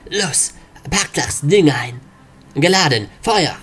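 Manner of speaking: urgent soldier, yells fire; soldier shouting orders. Acted. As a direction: bark it out in combat. Soldiers fire rocket launcher.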